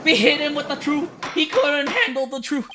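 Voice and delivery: high, excited victory shout; thrilled whoop at the screen; gleeful cheer. Real, not acted. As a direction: crow over the win. Cheering a win in the game.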